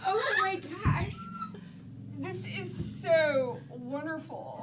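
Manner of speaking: loud, giggling delight; gushing. Acted. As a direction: gush with excitement. Gushing Drew Barrymore character.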